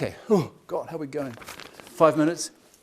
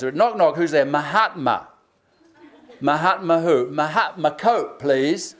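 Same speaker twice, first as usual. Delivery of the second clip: joke telling; slower than usual. Shown as a demonstration. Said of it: "here's one I kind of like".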